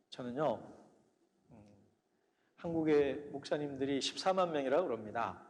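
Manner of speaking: ordinary talk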